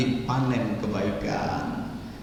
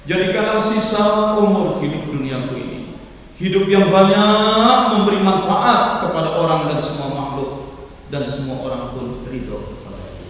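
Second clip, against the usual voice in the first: raised, louder praying voice; fervent prayer; 6 semitones higher, 4 dB louder than usual. Shown as a demonstration. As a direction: pray out loud with rising fervour. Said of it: "saya sejak remaja kalau berdoa".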